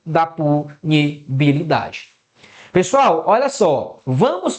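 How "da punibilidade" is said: slow, measured "punibilidade", broken into syllables; teacher sounding out a key term slowly. Shown as a demonstration. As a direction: draw out the legal term piece by piece. Teacher spells out key legal term.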